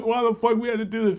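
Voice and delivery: high wailing complaint; hammed-up tearful whine; mock crying. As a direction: imitate someone crying out in misery, pitch way up. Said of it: "People crying".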